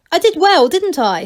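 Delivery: fishing for praise, delighted; excited gnome; eager for praise. Acted. Angelo seeks praise.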